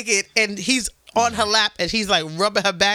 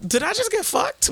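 stunned disbelief; 10 semitones higher than usual. Retold or imitated. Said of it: "and I was like".

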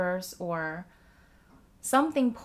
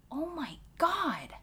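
much higher, incredulous put-on voice; exasperated disbelief; 7 semitones higher than usual. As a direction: throw up your hands in mock outrage. Her own exasperated inner reaction.

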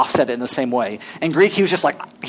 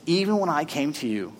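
softer, intimate reading; quiet quoting; 6 dB quieter than usual. Acted. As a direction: say it gently, almost confiding. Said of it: "He says".

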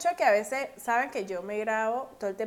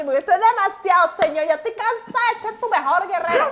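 weary meme prayer; 6 semitones higher, 7 dB louder than usual. Acted. Quoting the tired warrior meme.

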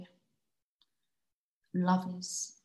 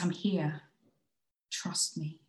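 whispering; slower than usual. Acted. Comforting a partner.

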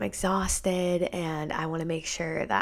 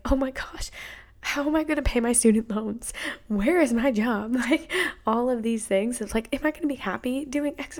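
anxious panic; 6 semitones higher than usual. Retold or imitated. Voicing twenties anxiety, inner panic.

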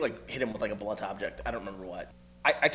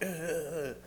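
gagged grunt; 7 semitones higher than usual. Retold or imitated. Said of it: "grunting 'cause he's, like, gagged".

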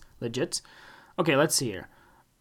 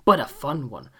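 happy reviewer; 6 semitones higher, 6 dB louder than usual. Retold or imitated. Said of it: "And be like".

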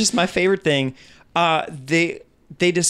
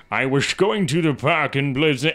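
bad British accent. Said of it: "starting out like".

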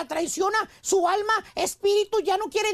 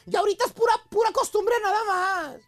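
sad voice. Retold or imitated. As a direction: act out a sad, resigned wife. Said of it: "con voz triste".

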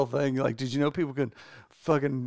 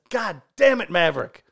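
shouted slogan; 3 semitones higher, 6 dB louder than usual. Pretend. T-shirt slogan read out.

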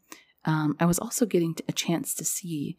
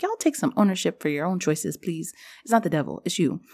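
mock scolding; 2 semitones higher than usual. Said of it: "that's more of a joke".

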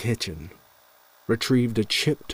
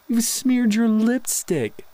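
much higher, louder slow coo; sing-song husband voice; doting husband; 13 semitones higher, 4 dB louder, slower than usual. A narrator's reading. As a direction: tease her fondly. Husband fusses over wife.

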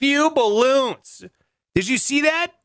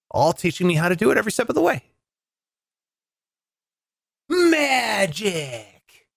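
magician voice. Pretend. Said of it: "That's my magician voice".

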